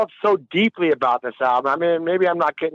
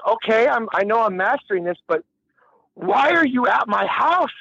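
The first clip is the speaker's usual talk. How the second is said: baffled engineer; 5 semitones higher than usual. Retold or imitated. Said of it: "he's like".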